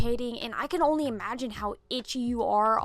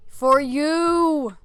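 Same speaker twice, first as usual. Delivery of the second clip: higher, louder, manic "For you!"; crazed yell; 5 semitones higher, 8 dB louder than usual. Shown as a demonstration. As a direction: bellow "For you!" like a madman. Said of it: "do my best psycho laugh".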